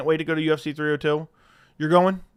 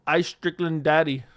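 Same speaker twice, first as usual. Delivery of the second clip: slow, deliberately broken English taunt; hammed-up broken English, drawn out slow; mock broken English; slower than usual. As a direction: play a fighter gloating in bad English. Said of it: "my best, uh, broken English accent".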